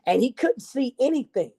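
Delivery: put-on lively read-aloud for children; storybook narration. A narrator's reading. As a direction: tell it like a picture book to a class. Reads picture book to children.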